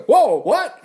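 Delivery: high, loud startled reaction; astonished. Acted. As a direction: stop short in sudden surprise. Acts out Isaiah's astonishment at God.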